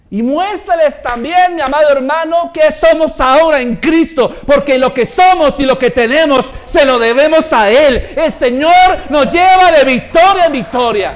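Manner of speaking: loud, high, emphatic exhortation; full-force preaching. Real, not acted. Preacher exhorting a brother to honour Christ, booming and fervent. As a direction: preach it out loud over the crowd.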